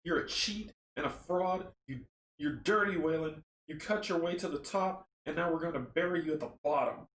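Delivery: lightly voiced accusing taunt. Monstrous hands threaten Wayland, mildly taunting. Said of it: "the hands taunt".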